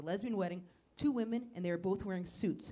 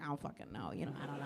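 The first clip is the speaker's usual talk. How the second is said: quiet mumble; 8 semitones lower, 9 dB quieter, faster than usual. Acted. Comic shrugging, much quieter.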